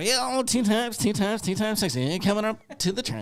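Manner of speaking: put-on, very high, nasal club announcer voice. Imitating a strip club stage announcer: imitating a nasal announcer voice. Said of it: "Or it's gotta be nasal".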